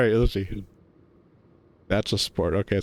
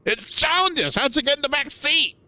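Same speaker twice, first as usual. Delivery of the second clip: calling out; 13 semitones higher than usual. Acted. Startled friend calling to Carl, high call. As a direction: shout across the lot at him. Character calls out in scene.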